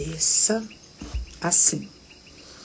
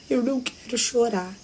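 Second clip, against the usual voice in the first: higher, imitated tearful protest; holding back tears; 6 semitones higher than usual. Husband who almost never cries, retold as holding back tears. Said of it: "ele começou a chorar".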